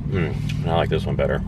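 talking between bites of pizza; chewing while talking. Real, not acted. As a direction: mouth partly full of food. Seen 2: Left speaker bit pizza at -3s, jaw and lips working while talking.

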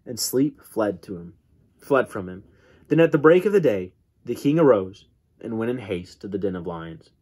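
measured Bible reading from the pulpit; scripture reading. Acted. Preacher reading Daniel to his congregation, measured and steady. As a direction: read the passage steadily to the congregation.

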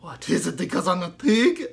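loud, hurt puppet pig; a puppet pig asking if he's being snubbed; squeaky ventriloquist dummy. Acted. Pig puppet takes offence.

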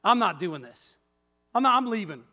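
mock-mad refusal, digging in; retold huffy walkout; retold anger. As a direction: put your foot down, mildly mad. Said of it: "I get all mad".

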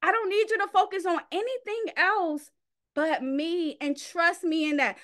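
a hint of God's patient voice; voicing God. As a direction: let God plead gently, trust me. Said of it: "all God wants is".

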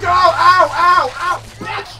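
loud high ow ow ow; pained yelps. Real, not acted. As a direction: yelp in pain, then curse. Being bitten in game.

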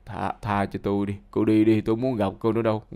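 imitated weak, low plea; faint, barely alive. Patient begging the girl to leave him, mock feeble gasping. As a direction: plead feebly as if fading away. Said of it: "thôi thóp bảo chứ".

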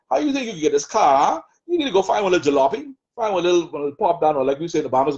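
lightly voiced taunting devil, mocking; the adversary's taunting voice. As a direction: sneer at the listener as the accuser in their head. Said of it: "That's that Goliath spirit".

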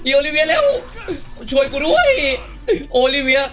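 frantic laughing plea; laughing panic. Pretend. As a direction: yell at partner to hurry, panicking and laughing. Overrun by zombies, begs partner.

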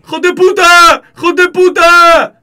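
put-on loud, high drunken yell with an Arab accent, the second one drawn out slowly; imitating drunk Arab shouting. Drunk man on the hospital floor yelling insults, hoarse Arab-accented shout. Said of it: "¿Por qué el tono árabe?".

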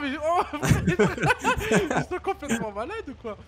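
laughing in disbelief; high, slow, laughing outburst. Real, not acted. Laughing at crazy AI trucks.

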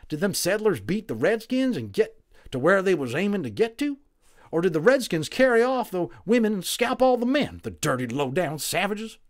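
loud, high rough cowboy; scornful frontier cowboy. A narrator's reading. Cowboy Boone voiced.

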